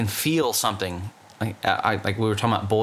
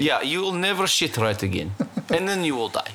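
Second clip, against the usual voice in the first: put-on Russian accent; 4 semitones higher than usual.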